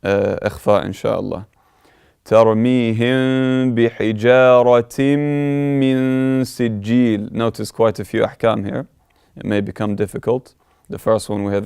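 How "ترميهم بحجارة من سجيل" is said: melodic tajweed chant; Quran recitation. Acted. Teacher reciting the next verse.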